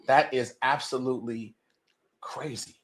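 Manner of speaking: whispered, stunned by the news; amazed whisper. Retold or imitated. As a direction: breathe it out in an awed whisper. Retold own amazed reaction.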